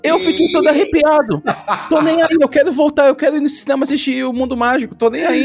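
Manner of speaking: thrilled outburst, voice pitched high; excited fan gushing. Real, not acted. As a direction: gush like a thrilled, unashamed fan. Gushing about the new trailer.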